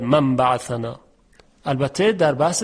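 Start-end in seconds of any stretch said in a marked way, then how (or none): 0.0-1.0 من بعثنا said quickly without the held m; wrong short m. Shown as a demonstration. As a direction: clip the m in من بعثنا. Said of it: "نمیگوید".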